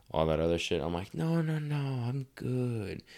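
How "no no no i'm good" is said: much higher, quick no-no-no, I'm fine; mock-casual denial to the trainer; hasty brush-off. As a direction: wave off the worry, airily.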